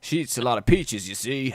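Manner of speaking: lightly put-on American voice; American accent. Cider maker explains his wife's flavor, mock American accent. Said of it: "I don't know why he's American".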